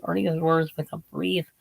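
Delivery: strained, failing voice; losing voice. Real, not acted. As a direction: voice giving out mid-sentence. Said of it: "I'm losing my voice".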